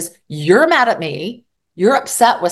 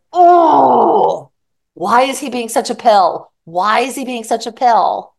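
exasperated venting; 3 semitones higher, 4 dB louder, slower than usual. Retold or imitated. Venting alone in other room.

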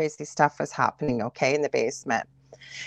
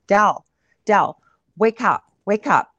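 higher, insistent re-enacted wake-up call; urgent calling; 3 semitones higher, 5 dB louder than usual. Wife re-enacting shaking her seizing husband awake, urgent calling. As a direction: act out trying to rouse someone.

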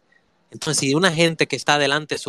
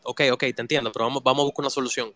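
faster, insistent "vamos, vamos"; insistent redirect; 2 semitones lower, faster than usual. Retold or imitated. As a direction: push them toward the solution, hurrying. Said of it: "Y yo". (insistente y más rápido, repitiendo "vamos")

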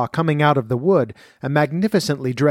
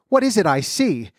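a startled mother's raised cry, lightly acted; cry of dismay; 7 semitones higher than usual. A narrator's reading. Mother seeing a toad fall from her daughter's mouth, mild dismay. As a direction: gasp it out in shock, mildly. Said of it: "cried the mother".

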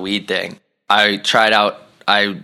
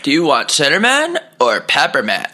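repeating the clerk; 5 semitones higher than usual. Retold or imitated. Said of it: "He goes".

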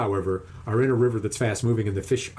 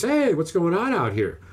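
retold call-out; 7 semitones higher than usual. Younger brother calls out on arriving.

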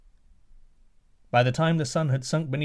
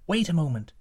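put-on higher young woman's voice; daughter; 5 semitones higher than usual. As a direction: stop him in a higher voice. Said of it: "she said".

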